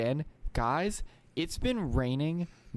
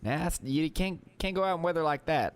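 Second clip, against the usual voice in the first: put-on higher country-accented mom; 5 semitones higher than usual. Mom warns about bad weather, country accent. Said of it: "doesn't have a country accent".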